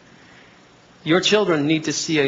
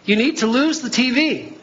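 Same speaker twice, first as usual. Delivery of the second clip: God's gentle voice; 9 semitones higher than usual. Retold or imitated. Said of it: "sometimes he will tell you".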